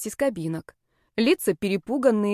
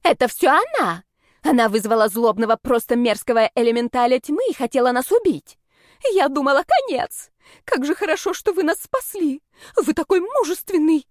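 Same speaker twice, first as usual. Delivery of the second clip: high, gushing tattletale voice; shrill accusation turning into high-pitched flattery; squealing accusation; 5 semitones higher, 5 dB louder than usual. A narrator's reading. Girl blames the heroine and flatters the rector, squealing. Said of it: "взвизгнула мамия".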